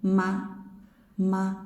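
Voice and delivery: "Ma" hummed through the nose; nasal ma. Shown as a demonstration. Teacher demonstrating nasal ma. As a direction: let ma ring nasal.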